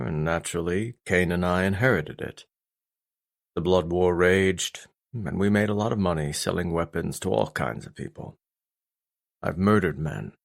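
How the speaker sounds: a hint of a grim, remorseful father; stern father, confessing.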